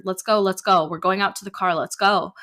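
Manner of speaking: loud urgent orders; shouting rapidly. Acted. Mother rushing the kids to the car, loud urgent orders. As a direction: hurry them along. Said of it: "she shouted rapidly".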